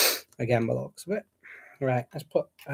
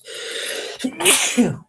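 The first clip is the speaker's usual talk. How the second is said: a sudden real sneeze; sneezing; 11 semitones higher than usual. Real, not acted. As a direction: sneeze off the mic. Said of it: "I am defo gonna sneeze again".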